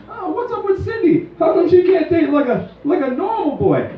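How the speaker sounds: put-on a crotchety old man voice. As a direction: sneer at the cyborg date. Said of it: "and I'll be like".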